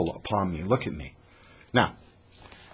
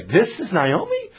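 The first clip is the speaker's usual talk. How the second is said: mocking; 8 semitones higher than usual. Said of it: "they're mocking her".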